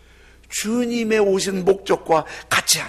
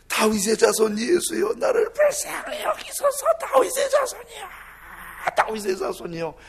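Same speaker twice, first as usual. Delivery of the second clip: frantic cry; 3 dB louder than usual. Acted. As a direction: cry soaring very high, loud. 더욱 크게 소리지른 외침. (아주 높은 목소리로 절규하는 외침)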